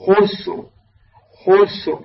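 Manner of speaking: "خسر" closing on a thick, vowelless ra; heavy final ra. Shown as a demonstration. Teacher models the word after the rule, heavy ra. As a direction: say "خسر" as "khusr", ra held heavy. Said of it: "هكذا".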